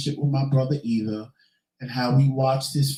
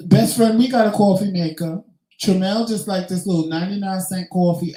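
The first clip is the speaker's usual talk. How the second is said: higher and louder, bursting with news; excited call-out; 6 semitones higher, 5 dB louder than usual. Real, not acted. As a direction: announce it like you can't wait. Calls out excited to viewers.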